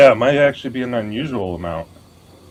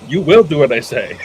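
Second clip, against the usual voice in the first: loud commanding voice for the computer; booming arrogant alien overlord; 3 semitones higher, 7 dB louder than usual. Pretend. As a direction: order the machine around like a tyrant.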